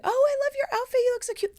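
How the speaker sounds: admiring voice. Retold or imitated. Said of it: "people would be like".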